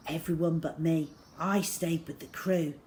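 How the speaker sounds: ordinary delivery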